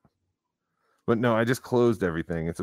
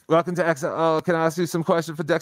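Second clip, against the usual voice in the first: imitating a clumsy British accent; mock British accent, pitched higher; bad British accent; 7 semitones higher than usual. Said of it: "What kind of accent is that".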